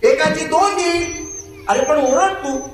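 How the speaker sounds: donkey urging the dog to bark, high pleading voice. Acted. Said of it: "तो म्हणतो".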